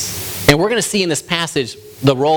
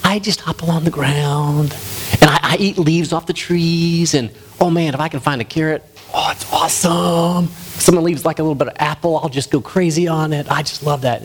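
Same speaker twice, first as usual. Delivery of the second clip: bunny; 2 semitones higher than usual. Acted. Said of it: "And the bunny goes".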